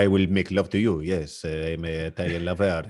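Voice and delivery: low mock Italian accent; Italian lover accent. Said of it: "you had the Italian guy".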